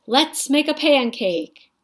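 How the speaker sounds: put-on high, excited little boy; eager boy. A narrator's reading. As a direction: beg for the pancake happily.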